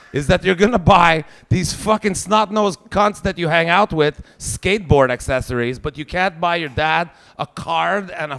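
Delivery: dad yelling at daughter about Secret Santa gifts; angry rant. Retold or imitated. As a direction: blast her like a betrayed father. Ranting at daughter.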